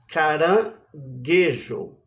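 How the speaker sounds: caranguejo said slowly, syllable by syllable, with a hard gue; slow demo word. Shown as a demonstration. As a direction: stretch caranguejo out for the class. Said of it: "o Gue está no meio".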